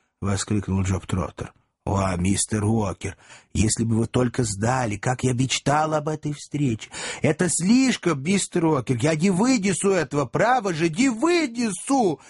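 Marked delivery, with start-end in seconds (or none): 1.8-12.2 rising, weepy wail, slowing at the end; overdone tears of fake joy; tearful gushing. A narrator's reading. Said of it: "сопровождались слёзным наводнением". (Джоб притворно рыдает от радости, голос всё выше)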